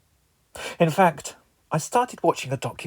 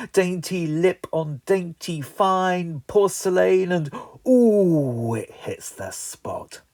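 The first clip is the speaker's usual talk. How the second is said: tea poem. Acted. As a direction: savour each image like an ode. Poetic tea ode.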